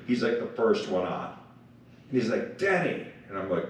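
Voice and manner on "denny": high, bright call of a name; imitating a big friendly greeting; imitating Gordon's greeting. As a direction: greet him like an old friend. Gordon greeting him on Zoom.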